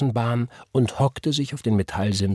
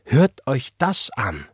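slow, higher-pitched wonder; amazed; 5 semitones higher, slower than usual. A narrator's reading. Church sister marvelling at the boy's age, amazed. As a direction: marvel at it, stretching the words out. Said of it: "staunte Sister Price".

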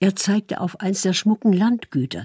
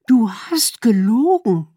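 slow, higher, louder hissed accusation; wife confronting her lying husband, threatening; 6 semitones higher, 5 dB louder than usual. Acted. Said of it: "fuhr sie drohend fort".

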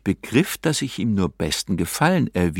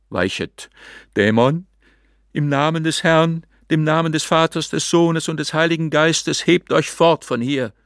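fervent exorcism; 6 semitones higher than usual. A narrator's reading. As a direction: drive the demon away with holy words. Hermit exorcises with crucifix.

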